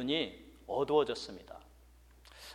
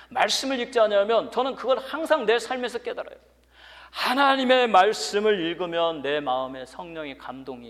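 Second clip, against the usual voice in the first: raised, higher-pitched pulpit voice; earnest preaching; 7 semitones higher, 6 dB louder than usual. Real, not acted. Preacher urges the church to pray and read, earnest preaching. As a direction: urge the congregation on, pitched up.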